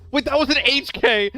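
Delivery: shocked realization; surprised. Real, not acted. Surprised by enemy weapon.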